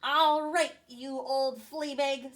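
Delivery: a hint of a squeaky little commander; lightly voiced tough mouse officer. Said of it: "squeaked the Big Cheese".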